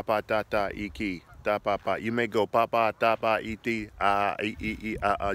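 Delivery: halting syllable babble; tongues babble demo. Shown as a demonstration. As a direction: sound out simple syllables. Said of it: "Just begin to say out, uh, vowels and consonants".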